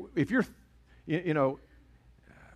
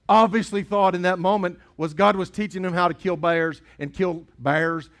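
Southern accent slipping; 3 semitones higher, 6 dB louder than usual. Real, not acted. Pastor retelling David's life, Southern accent slipping out. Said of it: "that accent comes out".

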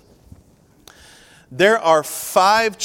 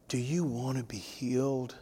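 softer, limp and uninterested; listless; 10 dB quieter than usual. Shown as a demonstration. Preacher showing how Jesus did not ask it, listless and softer. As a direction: ask it like you couldn't care less, softly. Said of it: "Jesus didn't come up to him and say".

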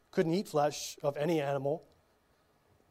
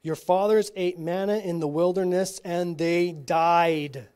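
slow, mildly reproachful Jesus reading, a touch louder; little reproach; 4 dB louder, slower than usual. Acted. Jesus chiding the crowd who want only bread, mild reproach. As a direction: gently scold the crowd, drawing each word out. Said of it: "with a little reproach in his voice".

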